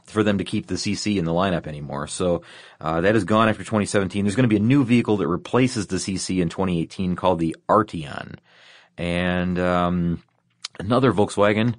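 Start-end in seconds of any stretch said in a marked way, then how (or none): 4.2-11.7 short of breath, voice tiring; talking with little breath left; running out of air. Real, not acted. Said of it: "I'm running out of breath, Ben, and running out of voi-, out of my voice here".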